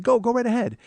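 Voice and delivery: high, gracious insistence; acted sweet politeness; very polite. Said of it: "again, very polite".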